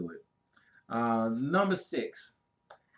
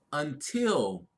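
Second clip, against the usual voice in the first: slow quote reading; slower than usual. Acted. Reads out an inspiring quote.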